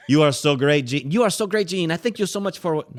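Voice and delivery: high, gushing imitation of thanks; gushing admirer. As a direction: imitate a grateful woman fawning over her rescuer. Retold gushing British guide, accent missed.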